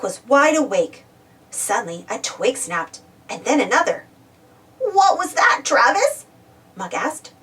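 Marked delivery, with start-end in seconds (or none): 4.8-6.2 high, worried whisper-free questioning; alarmed question. Acted. Muck to sleeping Travis after a twig snap, alarmed. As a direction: ask it with a nervous lift.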